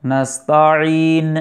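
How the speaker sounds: نستعین slow with the ع from the throat; throat ain demo. Shown as a demonstration. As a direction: stress the ع in نستعین. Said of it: "عین کا مخرج". (عین کے مخرج سے)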